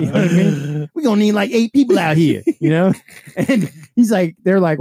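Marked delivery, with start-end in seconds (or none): 0.9-2.4 high, loud plea for backup; exasperated retold demand. Removal guy on the phone asking for more people, exasperated. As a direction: imitate a worker calling for reinforcements, pitched up.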